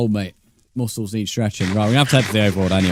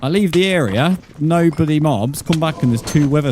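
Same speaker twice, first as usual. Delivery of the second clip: high outraged yelp; 7 semitones higher than usual. Real, not acted. To chat about respawned mobs, high outrage. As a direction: pitch jumps up, indignant.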